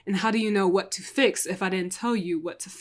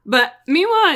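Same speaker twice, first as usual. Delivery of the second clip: ordinary talk, nothing marked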